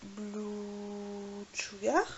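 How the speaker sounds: slow, drawn-out hesitation while remembering; hesitant, slowly recalling a name; thinking aloud. Real, not acted. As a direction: stretch the words as you search your memory. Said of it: "Je suis en train de réfléchir".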